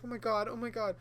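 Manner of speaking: lightly acted bashfulness; bashful imitation. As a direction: mimic someone flustered and shy. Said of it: "she got really shy and bashful".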